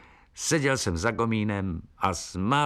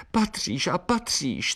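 higher, insistent bird voice; insisting little bird; 9 semitones higher than usual. Acted. Eliška insists Jakub belongs, high insistent. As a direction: insist like a stubborn little swallow. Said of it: "trvala na svém Eliška".

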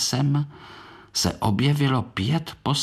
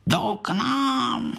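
high, slow startled gasp of words; 14 semitones higher, slower than usual. A narrator's reading. Korálek startled as visitors approach, high and slow. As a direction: jump a little in fright. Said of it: "lekl se Korálek".

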